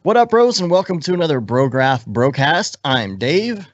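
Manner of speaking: rushed podcast intro in one breath. Acted. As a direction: race through the intro without breathing. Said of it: "I still have more breath".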